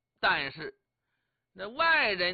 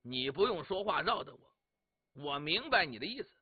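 cold sneer; 2 semitones lower than usual. Acted. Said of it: "王伯党冷笑一声".

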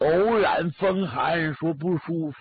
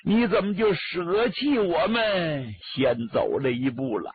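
wailing lament. Acted. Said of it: "孙凤山一看是顿足捶胸啊".

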